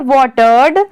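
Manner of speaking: वाटर्ड said briskly in one go; quick reading. Shown as a demonstration. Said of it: "अगर इसको फटाक से पढ़ेंगे". (वाटर्ड को फटाक से पढ़ना)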